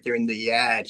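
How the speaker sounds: yard as "yad", no R; imitating dropped R. Quoting Jaws scene, yard without its R. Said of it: "they don't pronounce the R".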